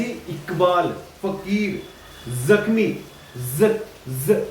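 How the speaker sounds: इकबाल with a throaty q, जख्मी with a buzzing z; nukta pronunciation. Shown as a demonstration. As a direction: model इकबाल, फकीर, जख्मी word by word. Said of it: "गले में हो रही है".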